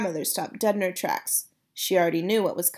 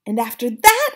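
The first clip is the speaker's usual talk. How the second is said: quivering with excitement; 3 semitones higher, 7 dB louder than usual. Acted. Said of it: "quivering with excitement".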